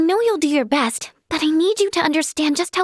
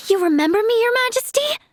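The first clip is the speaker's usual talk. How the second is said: breath in, then rising, quicker question; flattered surprise; 7 semitones higher, faster than usual. Acted. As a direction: let the pitch climb in amazement. Surprised to be remembered by royalty.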